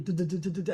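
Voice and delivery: rattling mock gunfire, duh-duh-duh; rapid-fire syllables imitating shooting; imitated battle noise. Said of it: "battle noise going on outside".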